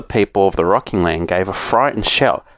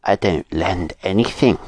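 lower, curt refusal; mean old woman; 4 semitones lower, 3 dB quieter than usual. A narrator's reading. Sharp-nosed woman refusing Moonface, curt. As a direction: shut the door with your voice. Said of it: "she said".

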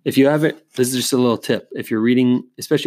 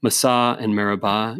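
Massah and Meribah, each stressed on its final syllable; stress on last syllables. Shown as a demonstration. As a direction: say Massah and Meribah Hebrew-style, mas-SAH, meri-BAH. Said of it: "just emphasize the last".

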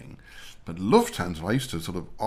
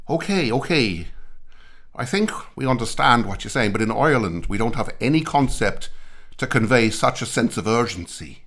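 mock Irish reply; 2 semitones higher, 5 dB louder than usual. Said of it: "the Irish look at each other and think".

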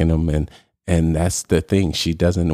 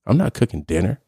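higher mock-outraged wife snapping back; indignant wife; 8 semitones higher than usual. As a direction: play the offended wife, scoffing. Wife voiced in acted quarrel.

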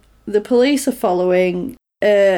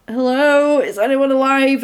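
raised, mildly panicked call down the phone; freaking out; 4 semitones higher than usual. Retold or imitated. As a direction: imitate someone anxiously calling into a phone. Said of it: "properly freaking out".

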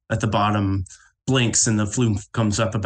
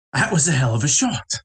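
game character; 4 semitones higher than usual. Acted. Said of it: "and she goes".

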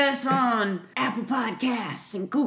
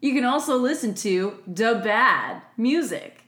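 infomercial voice. Pretend. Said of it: "Now you're selling me, like, OxyClean".

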